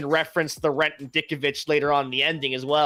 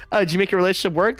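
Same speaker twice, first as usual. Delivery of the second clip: eager quick question; 4 semitones higher, 4 dB louder, much faster than usual. Retold or imitated. Andrew asking Toby.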